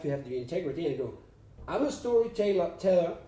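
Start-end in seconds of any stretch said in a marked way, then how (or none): 1.7-3.2 put-on slips into a French accent on "I'm a storyteller", with "storyteller" said as "storytellah" and the end dropped; light French lilt, "storyteller" ending in an open "ah". Actor quoting his own on-set mindset, accidentally in a French accent. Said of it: "I'm speaking French now".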